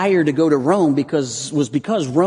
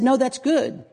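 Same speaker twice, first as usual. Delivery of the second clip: higher-pitched comic comeback; upbeat contradiction; 9 semitones higher than usual. Acted. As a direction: counter cheerfully, lifting the pitch high. Comic song's good-bad back-and-forth.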